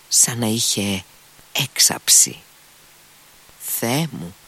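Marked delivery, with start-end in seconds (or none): 3.8-4.3 whisper. Acted. Heroine's excited whisper.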